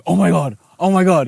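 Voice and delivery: half-yell it, imitating the commotion; mock yelling. Telling how they woke the sleepers, mock yelling. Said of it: "They're just yelling".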